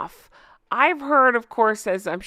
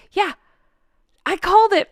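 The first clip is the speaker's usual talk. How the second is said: triumphant; 9 semitones higher, 3 dB louder than usual. Real, not acted. Gloating prediction came true.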